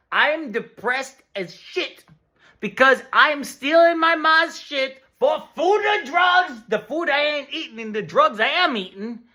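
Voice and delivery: mock desperate complaint. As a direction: whine it out at the doctor. Patient complaining loudly.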